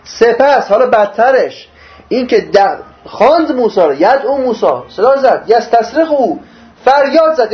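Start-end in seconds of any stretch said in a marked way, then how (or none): none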